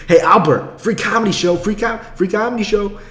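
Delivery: mimicking a friend calling out to strangers; imitating a street barker. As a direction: bark it at a passerby like a hustler. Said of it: "He'll be like".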